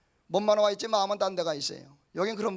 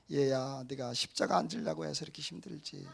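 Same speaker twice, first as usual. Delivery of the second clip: tender voice of the Lord; 4 semitones lower, 6 dB quieter than usual. Retold or imitated. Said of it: "주님이 하시는 말씀이".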